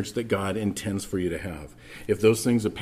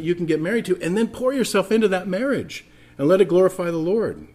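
raised, louder impassioned preaching; preaching at full force; 8 semitones higher, 5 dB louder than usual. Acted. Pastor urging divorced listeners toward peace, preaching hard. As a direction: preach it out to the back pews with fire.

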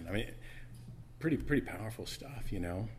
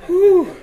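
worked-up exhale; 22 dB louder than usual. Real, not acted. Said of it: "getting a little worked up here".

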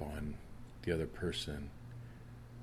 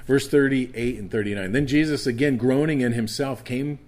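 raised, fervent scripture reading; preaching; 6 semitones higher, 9 dB louder than usual. Acted. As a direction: preach it out to the congregation, building. Preaching scripture at full force.

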